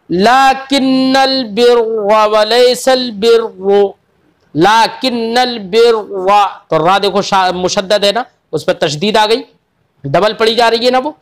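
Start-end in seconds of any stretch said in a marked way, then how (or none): 0.1-6.4 slow chanted recitation with heavy doubled रा; Quranic recitation. Shown as a demonstration. Teacher giving the example, slowly recited. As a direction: recite it slowly, savouring बिर्रा. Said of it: "जैसे".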